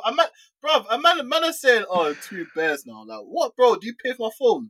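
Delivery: indignant rant. Real, not acted. Ranting about a tweet.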